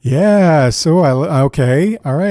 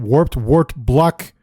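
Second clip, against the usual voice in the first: slow careful reading; much slower than usual. Shown as a demonstration. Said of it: "can't say three times fast".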